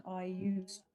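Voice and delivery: ordinary talk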